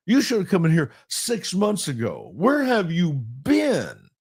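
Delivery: high, exasperated disbelief; jaded. Real, not acted. Pastor venting about late counseling, jaded and exasperated. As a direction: throw up your hands at the late plea. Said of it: "I sound jaded, don't I?".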